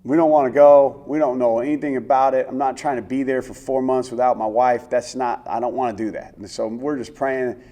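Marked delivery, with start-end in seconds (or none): 0.0-6.4 loud, earnest plea to the Lord; pleading prayer. Retold or imitated. Player and wife praying not to be sent away, loud pleading. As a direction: beg God not to send you. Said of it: "we start praying".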